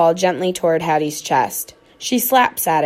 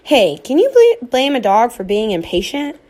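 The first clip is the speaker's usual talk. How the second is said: protesting dog; 5 semitones higher, 5 dB louder than usual. A narrator's reading.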